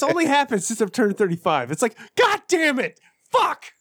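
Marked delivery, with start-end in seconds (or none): 2.2-3.7 mock curse. Retold knee pain outburst.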